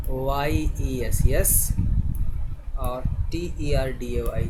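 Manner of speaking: letters spelled out very slowly; teacher dictating letters slowly to the class; slow spelling. Shown as a demonstration. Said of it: "तो इसको कैसे लिखते हैं?".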